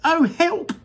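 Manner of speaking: high, loud panicked cry; shouted for help. Acted. Mrs TV thrown to the floor, shouting loudly for help. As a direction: yelp for help as you tumble. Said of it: "shouted Missus T V".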